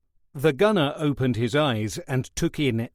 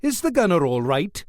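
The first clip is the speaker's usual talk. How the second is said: worried; 5 semitones higher, 4 dB louder than usual. Acted. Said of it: "he said in some alarm".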